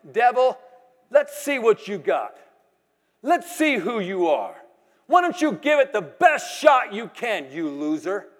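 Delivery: taunting the devil. Retold or imitated. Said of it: "what came out of my mouth is".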